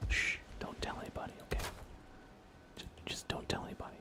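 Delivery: hushed, secretive aside; playful whispered shh; conspiratorial whisper. Pretend. Secret confession about fire under wood.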